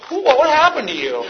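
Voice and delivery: high-pitched baffled dad; mock bewilderment. Dad visiting his son in rehab, bewildered. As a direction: exclaim it, thrown by what you hear.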